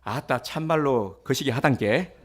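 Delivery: put-on a preacher joking about how Jeolla folk say I love you, in a Jeolla accent; Jeolla dialect. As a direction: stretch it out in a playful Jeolla accent. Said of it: "전라도는".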